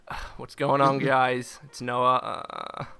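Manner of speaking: low groaning YouTuber voice. Retold or imitated. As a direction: groan through the intro. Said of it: "The groaning".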